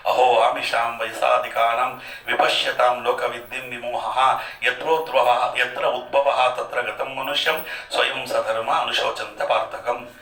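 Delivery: measured, intoned shloka recital; Sanskrit verse recitation. Acted. Preacher quoting scripture to listeners, intoned recital.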